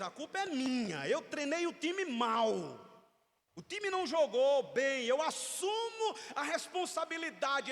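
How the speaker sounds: loud, earnest coach owning the loss; coach taking blame. Retold or imitated. Coach speaking to reporters after a defeat, loud and earnest. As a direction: proclaim it like a coach facing the press. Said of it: "O líder diz".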